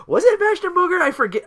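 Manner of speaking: laughing question. Real, not acted. Laughing while unsure.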